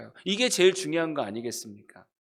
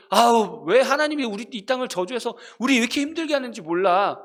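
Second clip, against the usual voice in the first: mock grumble; 4 semitones higher, 4 dB louder than usual. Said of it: "이렇게 얘기할 때".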